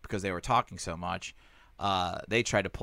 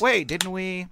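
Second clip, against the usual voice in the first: mock confused; 10 semitones higher, 4 dB louder, much slower than usual. Voicing a confused audience member.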